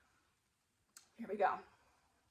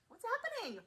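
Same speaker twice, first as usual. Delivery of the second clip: high, amazed question; surprised; 12 semitones higher than usual. Real, not acted. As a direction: gasp it out in wonder. Excited question.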